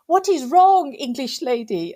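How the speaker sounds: put-on puzzled petrol attendant with a Polish accent; Polish man. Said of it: "I think he was Polish or something".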